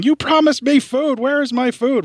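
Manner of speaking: Mac the cat voice. Retold or imitated. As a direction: wail it like a starving cat. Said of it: "Mac yelling at me in cat voice going".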